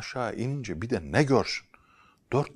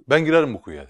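louder, firm announcement; bold declaration; 5 semitones higher, 12 dB louder, faster than usual. Acted. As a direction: declare it bravely.

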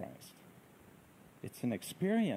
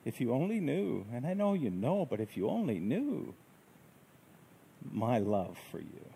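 gentle voice; 3 semitones higher than usual. Acted. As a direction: speak as Christ comforting the listener. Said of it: "A gentle voice that says".

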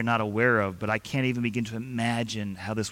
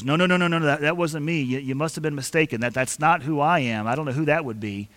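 panicked denial; faster than usual. Retold or imitated. Peter denying Jesus to the servant girl, a mild flustered panic. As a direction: brush it off fast, mildly flustered. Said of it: "Peter instantly goes".

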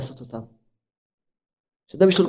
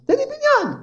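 urgent plea; 4 dB quieter than usual. Retold or imitated. Pleading with rich man, retold.

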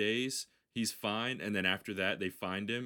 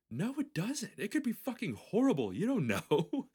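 much higher, louder mock warning; Andy Samberg warning; 13 semitones higher, 5 dB louder than usual. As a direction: squeak the warning out in a hammed-up voice. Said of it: "And he goes".

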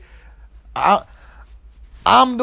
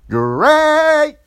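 high, loud, drawn-out cheer; mock elation; 11 semitones higher, 6 dB louder than usual. Boyfriend reacting to girlfriend's news, mock elation.

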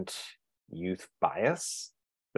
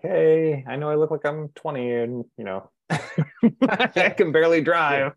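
higher, louder, laughing sales pitch; jokey pitch to clients; 7 semitones higher, 5 dB louder, slower than usual. Retold or imitated. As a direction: sell yourself while laughing at it. Reassuring clients about his age.

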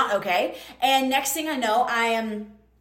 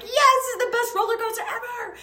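much higher, giddy roller-coaster glee; thrilled squeal; 10 semitones higher than usual. Retold or imitated. Mid-air on the parasail, telling the audience, giddy high squeal. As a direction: squeal it like the best ride ever. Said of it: "I'm like".

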